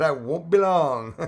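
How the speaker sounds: high, loud, drawn-out mock promise; teasing mimicry. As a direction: tease someone by parroting their words, stretched out. Teasingly mimics viewer's message.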